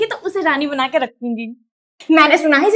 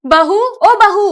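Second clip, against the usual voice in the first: slow drawn-out call, louder; calling daughter-in-law; 4 semitones higher, 3 dB louder, much slower than usual. Acted. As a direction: stretch the call across the house.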